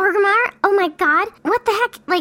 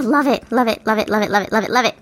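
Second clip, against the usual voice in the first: gushing; 4 semitones lower, faster than usual. Real, not acted. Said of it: "Enough gushing".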